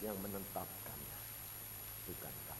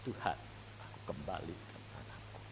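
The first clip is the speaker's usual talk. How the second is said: soft, lower broken prayer; surrendering prayer; 7 semitones lower, 7 dB quieter than usual. Retold or imitated. Wife praying alone in another room, soft low surrender. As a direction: let go of the child, very quietly. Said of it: "Dan dia berkata".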